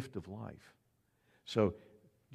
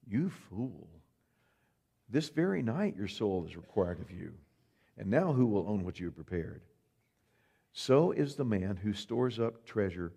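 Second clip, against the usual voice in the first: solemn God. Acted. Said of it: "But God said to him".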